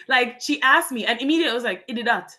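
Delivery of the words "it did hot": Creole. Retold or imitated. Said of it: "Oh, in Creole".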